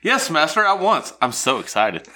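lightly voiced servile woman; eager servant, hammed up; hunchback assistant. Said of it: "I'll be the woman".

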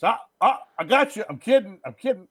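high, loud mock "just kidding" outburst; imitated manic joking. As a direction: blurt it out like a manic prankster. Same killer taunt acted again.

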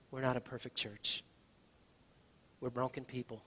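earnest, measured pastoral prayer; closing prayer. Acted. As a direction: pastor praying for the church, earnest and unhurried.

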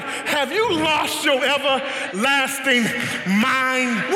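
mock exasperated parent, a bit slow; lightly voiced parent scolding. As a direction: scold a child like a fed-up parent. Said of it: "We say things like".

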